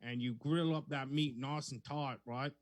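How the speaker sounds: hammed-up Aussie drifting into Southern belle; Australian accent, slipping Southern. Second audition for his co-host, Aussie accent sliding Southern. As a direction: attempt an Australian woman and miss. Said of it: "I went Southern Belle on that time".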